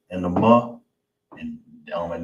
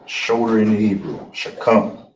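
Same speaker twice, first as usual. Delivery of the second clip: shakam said louder and clear; clear, louder model; 3 semitones higher, 5 dB louder than usual. Shown as a demonstration. Teacher modelling shoulder in Hebrew, louder. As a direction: announce shoulder, then shakam, firmly. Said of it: "that's how you say that in the Hebrew".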